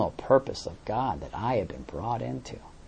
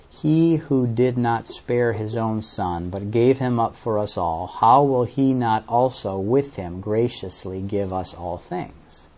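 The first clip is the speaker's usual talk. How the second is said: reading the verse; slower than usual. Retold or imitated. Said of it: "This is how it usually reads".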